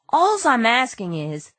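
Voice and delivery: high, alarmed crook voice; a scared crook backing off; panicked crook. Acted. Crook begs the detective not to bring the husband, high and panicked. Brady voice.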